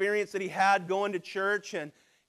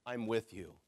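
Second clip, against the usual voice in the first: very low, soft voice of God; quiet, tender promise; gentle divine reassurance; 12 semitones lower, 10 dB quieter than usual. Retold or imitated. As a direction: drop to a hushed, comforting tone. Repeats God's quiet reassurance.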